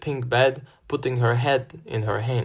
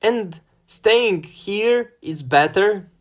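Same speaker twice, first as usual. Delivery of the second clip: high, loud, slow retort; angry retort; 9 semitones higher, 4 dB louder, slower than usual. A narrator's reading. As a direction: fire it straight back, angry. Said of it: "I shot back".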